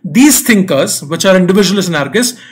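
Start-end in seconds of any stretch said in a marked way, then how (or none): 0.0-1.0 stretched out slowly, word by word; deliberate slow reading. Shown as a demonstration. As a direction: read it slowly so it sinks in. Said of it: "So slow down a little bit".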